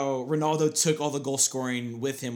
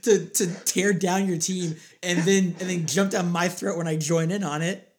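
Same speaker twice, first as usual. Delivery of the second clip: louder, higher laughing protest; excited protest; 5 semitones higher, 5 dB louder than usual. Real, not acted. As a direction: cut in fast, half laughing. Friend protests at being blamed.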